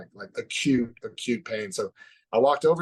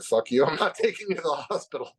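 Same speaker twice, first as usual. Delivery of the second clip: mock angry dad; 5 semitones higher than usual. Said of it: "and he's like".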